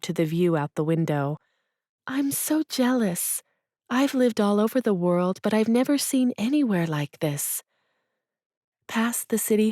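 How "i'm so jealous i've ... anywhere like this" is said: put-on a higher, gushing young woman's voice; lightly voiced envious friend. Aaliyah admiring Eureka Springs to Hazel, higher and gushing. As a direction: sigh it out with wide-eyed envy.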